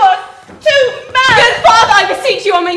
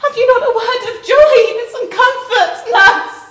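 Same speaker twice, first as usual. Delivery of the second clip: higher, sobbing appeal; tearful pleading; 5 semitones higher than usual. Acted. Girl begging nurse for a word of joy, tearful. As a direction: beg for comfort through tears. Desperate daughter begs nurse for comfort.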